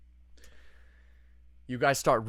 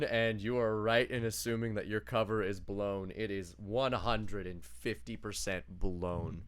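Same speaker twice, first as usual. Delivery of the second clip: measured, lower and softer narration; game master scene setting; 3 semitones lower, 5 dB quieter than usual. Acted. Game master confirming the party's blown cover, measured narration.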